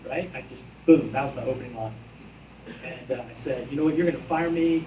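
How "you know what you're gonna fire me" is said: retold outburst, a bit louder; mock tirade at the boss; losing his mind. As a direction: push it out as if losing it. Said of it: "I just lost my mind on it".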